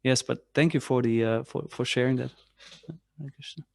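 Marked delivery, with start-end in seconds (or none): none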